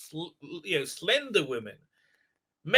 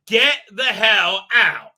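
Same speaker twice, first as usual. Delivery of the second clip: loud, slow mock order; mock angry order; 6 dB louder, slower than usual. Retelling him throwing someone out, loud mock anger. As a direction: drag out each word forcefully.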